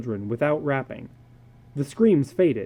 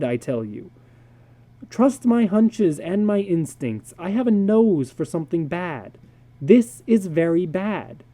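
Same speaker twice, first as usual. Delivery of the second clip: a lightly voiced doctor, higher and insistent; a hint of a blunt psychologist warning his friend; earnest psychologist; 5 semitones higher, 3 dB louder than usual. Psychologist David to George, a lightly voiced urgent warning.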